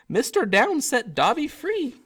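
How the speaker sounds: high, slow elf voice full of wonder; awed elf. Acted. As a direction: marvel like a freed house-elf. Dobby marvels at freedom.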